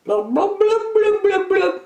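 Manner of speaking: very high sing-song mom chant; high encouraging mother's chant; cheering mom. A narrator's reading. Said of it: "his mom said".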